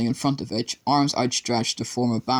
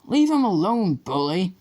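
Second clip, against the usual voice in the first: shouted; 7 semitones higher than usual. A narrator's reading. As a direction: yell it from behind the glass. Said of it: "A year ten girl shouted".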